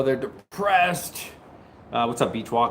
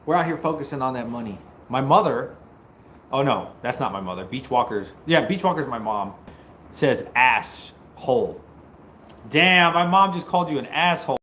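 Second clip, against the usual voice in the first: ordinary talk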